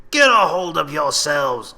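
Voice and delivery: loud, slow, firm command; steady them with authority; commanding captain. Acted. Captain calming his panicking men, firm and loud. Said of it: "Captain Malcolm said to his men".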